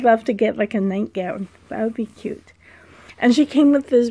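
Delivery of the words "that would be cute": whisper. Real, not acted. Dreamy aside about nightgown.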